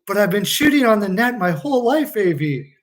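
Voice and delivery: hammed-up whiny objection; mock protest. Player protesting to the coach.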